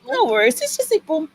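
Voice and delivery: put-on high-pitched French-accented reassurance. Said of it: "he is French".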